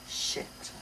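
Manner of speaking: angrily. A narrator's reading. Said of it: "I said angrily".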